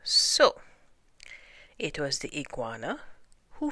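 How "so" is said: booming, drawn-out announcement; big royal pronouncement; kingly proclamation. A narrator's reading. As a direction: proclaim it loudly to the whole council. King pronounces verdict to council.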